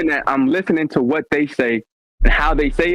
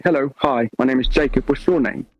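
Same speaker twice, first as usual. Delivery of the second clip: conversational British English accent. Shown as a demonstration. Showing friends how he fakes British talk, English accent. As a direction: play around lightly with an English accent. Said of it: "I can do an English accent fairly decent".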